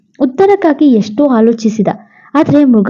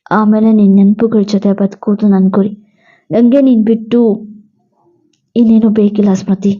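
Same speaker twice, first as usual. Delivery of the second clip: lightly voiced devoted husband; 3 semitones lower than usual. Husband answers his dying wife Smriti, lower and tender. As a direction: sound like a husband refusing to let her go. Narrator voices grieving hero.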